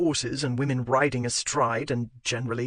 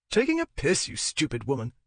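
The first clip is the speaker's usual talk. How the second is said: angry. Acted. Husband snaps back.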